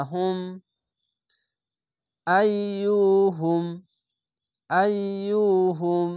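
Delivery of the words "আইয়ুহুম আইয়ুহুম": আইয়ুহুম slowly, the ইয়্য pressed and doubled; doubled letter. Shown as a demonstration. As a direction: lean into the doubled ইয়া. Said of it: "দুবার উচ্চারণ করতে হবে". (তাশদিদ দিয়ে ধীরে পড়া)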